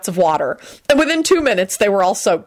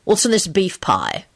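slow, mildly wary question; suspicious. A narrator's reading. Customer questioning the pieman, suspicious. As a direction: ask slowly with a hint of doubt. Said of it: "Lupin asked the pieman suspiciously".

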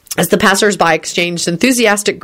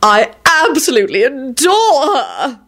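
decisive; 5 semitones higher than usual. A narrator's reading. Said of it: "he asserted decisively".

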